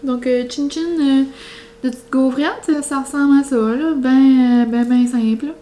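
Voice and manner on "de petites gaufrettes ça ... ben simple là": chewing openly, mouth full; messy loud eating. Real, not acted. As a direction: eat loudly for the mic. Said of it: "J'ai mangé la bouche ouverte, mais c'est juste pour faire le bruit".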